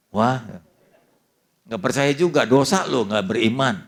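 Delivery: a son loudly chiding his unbelieving father; mock scolding. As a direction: scold him loudly for not believing. Retold rebuke of his father.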